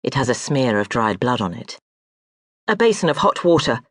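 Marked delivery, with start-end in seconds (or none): 2.7-3.8 barked order. Acted. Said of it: "she barks at the servants".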